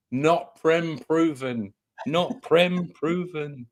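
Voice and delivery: slow, measured imitation of a pundit's catchphrase; Eugene. Podcaster quoting a regular's words heard in his head, slow imitation. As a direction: draw each word out slowly, as a mimicked catchphrase. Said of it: "I can hear his words in my head".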